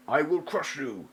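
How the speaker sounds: a slow, menacing warrior's threat. Acted. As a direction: growl it out like a warrior hero. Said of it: "So the emote for threaten".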